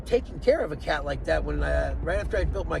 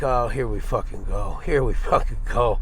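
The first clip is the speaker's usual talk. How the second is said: exasperated; 7 semitones lower than usual. Retold or imitated. Realizing caller is drag queen.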